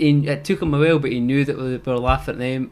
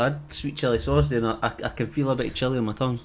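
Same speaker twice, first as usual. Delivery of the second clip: mouth full; faster than usual. Real, not acted. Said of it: "chili or something in my mouth".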